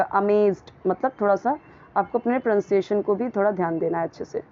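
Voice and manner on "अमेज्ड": "अमेज्ड" with a Z sound; "अमेज्ड" with Z before the final stop; correct pronunciation of amazed. Shown as a demonstration. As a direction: say "अमेज्ड" as uh-MAYZD. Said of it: "वो wrong हो जाएगा".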